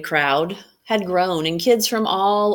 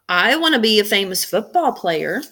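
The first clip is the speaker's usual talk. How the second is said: put-on eager kid's call; boy calling out; 3 semitones higher, 4 dB louder than usual. Matt calling out his wish to the magician, eager boy. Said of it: "he called out".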